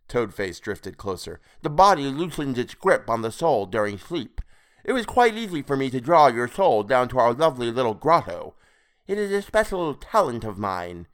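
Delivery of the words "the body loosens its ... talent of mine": higher, showy creature voice; smug toad creature. A narrator's reading. Creature boasting of his soul-stealing talent, smug. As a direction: boast as a self-satisfied toad-man.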